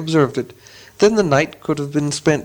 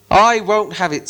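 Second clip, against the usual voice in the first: troll voice; 5 semitones higher, slower than usual. Acted. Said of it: "said William".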